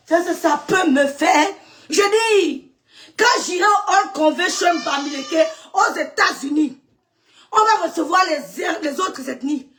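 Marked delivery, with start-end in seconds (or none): 3.2-9.7 defiant shout. Real, not acted. Proud defiant declaration. (proclamation fière et criée)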